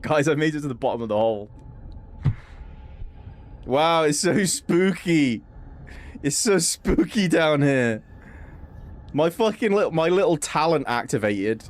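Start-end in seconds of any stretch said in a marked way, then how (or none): 3.7-8.0 slow, drawn-out mock-spooky gushing; mock awe. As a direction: stretch out the words in pretend wonder. Sarcastic awe at an empty dark hole.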